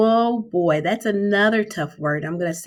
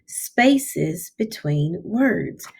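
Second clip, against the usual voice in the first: very slow; much slower than usual. Shown as a demonstration. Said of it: "this is the S for spaces".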